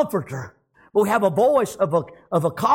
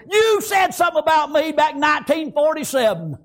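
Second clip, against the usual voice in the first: mock feuding accusation; 6 semitones higher than usual. Acts out a Hatfield-McCoy grudge.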